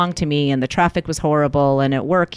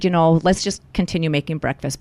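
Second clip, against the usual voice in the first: lightly calm, even retold suggestion; understated, unruffled proposal. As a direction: re-enact keeping the peace, evenly. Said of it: "So I just calmly said".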